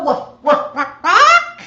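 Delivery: high, loud laughing woof woof; squeaky giggling dog imitation for the parrot; laughing mock bark. Shown as a demonstration. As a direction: bark it out playfully through a laugh. Demonstrating bark for bird.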